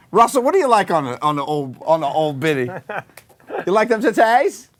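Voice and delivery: high-pitched mock yelling at a pal; hammed-up heckling. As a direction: holler it as a mock-lecherous tease. Hammy heckling of a friend.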